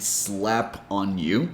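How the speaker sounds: "slap on you" slow, P joined to "on"; sla-pon-you; linked words. Shown as a demonstration. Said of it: "she connected".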